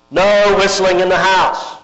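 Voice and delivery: a hint of a stern father calling from his study; father's growl. Father scolding the boys from his study, mild mock growl. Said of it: "kind of deep, growling voice".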